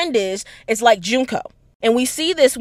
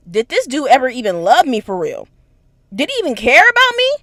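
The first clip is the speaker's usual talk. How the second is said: doubting herself; 3 dB louder than usual. Retold or imitated. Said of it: "she was just like".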